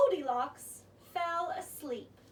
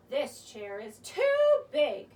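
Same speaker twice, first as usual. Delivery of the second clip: a touch of exclaiming, louder and slow; mild exclaim; 3 semitones lower, 7 dB louder, slower than usual. Acted. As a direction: complain lightly with a slow push. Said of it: "she exclaimed".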